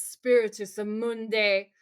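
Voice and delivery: slow, drawn-out Latin incantation; imitating a confident exorcist; strong confident start. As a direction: launch boldly into the chant, stretching it out. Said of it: "starts out really strong".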